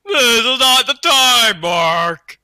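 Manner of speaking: growled villain line. Acted. Evil Mark growls at Mark, mock growl. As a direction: snarl it at Mark. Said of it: "he growled".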